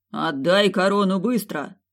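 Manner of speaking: slow angry command; angry demand. Acted. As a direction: bark the demand. Grandfather demands crown.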